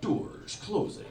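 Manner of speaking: slow flat mock train recording; train announcement. Comic imitating the train doors announcing closing, slow. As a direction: drag it out like the door chime voice.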